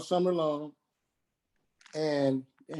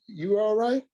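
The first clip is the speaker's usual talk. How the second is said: higher voice for his mother; mother on phone; 7 semitones higher than usual. Retold or imitated. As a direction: lift the pitch to voice Mama asking. Son voicing his mother's call.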